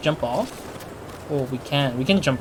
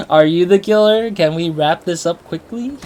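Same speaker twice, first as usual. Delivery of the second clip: louder, higher accusing question; loud accusation; 4 semitones higher, 7 dB louder than usual. Acted. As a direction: demand it like a detective. Accusing the character.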